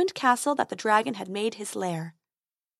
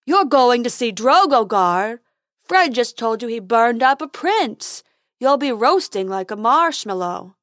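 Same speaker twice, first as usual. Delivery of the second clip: unicorn voice; 7 dB louder than usual. Acted. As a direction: gossip like a silly unicorn.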